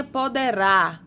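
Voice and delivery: "poderá" said slowly with the final RÁ stressed; stressed last syllable. Shown as a demonstration. Teacher showing pupils the tonic syllable, stress on RÁ in "poderá". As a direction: lean on the RÁ ending of "poderá". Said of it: "a última sílaba tônica".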